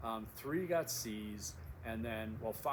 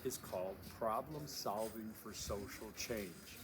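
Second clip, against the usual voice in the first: Solving leaned on slowly; stress on solving; 3 dB quieter, slower than usual. Shown as a demonstration. Teacher stressing Solving for new students. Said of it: "I want to emphasize the second word".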